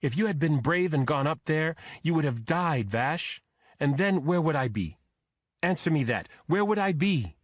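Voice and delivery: high, loud, accusing scold; scolding wife. A narrator's reading. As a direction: berate him, pitched high and loud. Wife scolds husband after fire.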